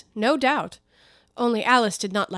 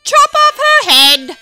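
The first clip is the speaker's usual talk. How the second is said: much higher, louder barked command; imperious order; 16 dB louder, slower than usual. Acted. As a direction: bark the order. Duchess orders execution.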